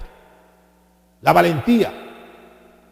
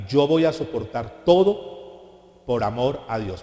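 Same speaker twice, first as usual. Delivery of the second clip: slow affirmation; 3 semitones lower, much slower than usual. Shown as a demonstration.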